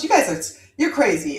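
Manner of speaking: hint of an aunt's Jamaican accent; touch of Jamaican, dismissive retort. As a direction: lightly imitate a Jamaican aunt. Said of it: "in her Jamaican accent".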